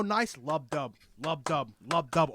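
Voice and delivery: steady heartbeat sounds. Shown as a demonstration. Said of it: "a normal heartbeat".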